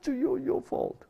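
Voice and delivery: very high, squealed protest; high-pitched tantrum voice; imitated blaming child. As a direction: wail it like a child pounding on dad's chest. Daughter pounding his chest, blaming him.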